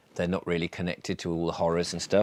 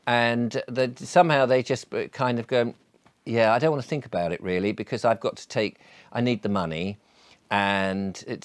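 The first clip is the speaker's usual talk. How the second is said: talking around a pipe stem; words round a pipe in the mouth. Real, not acted. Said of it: "I've got a pipe in my mouth".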